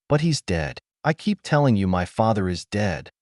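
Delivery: a mild mock angry yell on "But he's dead". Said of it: "she yells with anger".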